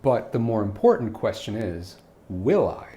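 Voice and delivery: smartass reply. Acted. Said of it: "being a class A smartass".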